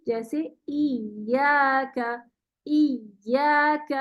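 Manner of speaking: ایاک with volume lifted on the doubled ی, slow; nabr on ya. Shown as a demonstration. Teacher demonstrates nabr to student, slow with a lift. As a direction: swell the voice on the ی of ایاک. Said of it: "آواز کا volume تھوڑا سا بڑھاتے".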